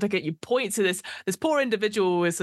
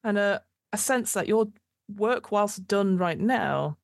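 game master narration. Acted. GM describing the streets of Sigil, measured narration. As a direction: paint the aftermath for the player.

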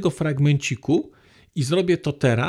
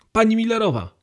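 calling out; 5 semitones higher, 3 dB louder, faster than usual. Acted. Calling tree names in game.

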